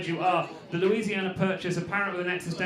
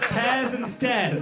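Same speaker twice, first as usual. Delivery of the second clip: laughing; much slower than usual. Real, not acted. Laughing while echoing drunk suggestion.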